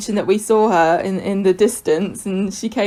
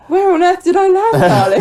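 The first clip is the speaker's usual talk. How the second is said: posh lady voice; 11 semitones higher, 6 dB louder than usual. Retold or imitated. Voicing the countess, horrified.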